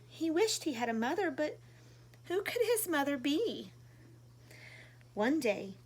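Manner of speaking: gentle storybook reading voice; reading to children. A narrator's reading. Reading a picture book to young viewers, gently. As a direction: read it warmly like to little kids.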